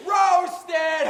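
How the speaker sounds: put-on high, drawn-out kid's yell; top-of-lungs scream. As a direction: scream it like a gloating little kid. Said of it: "scream "roasted" at the top of his lungs".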